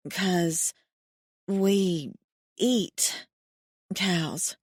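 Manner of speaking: mumbled through drool; drooling mumble. A narrator's reading. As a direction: mumble with a mouth full of drool. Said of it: "I mumble between drooling on myself".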